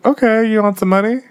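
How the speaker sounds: high, lilting mom imitation; mother's offer.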